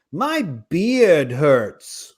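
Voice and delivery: put-on very slow, drawn-out little kid whine; child voice. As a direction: drag each word out like a sulky kid. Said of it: "This is my impression of a kid with a beard".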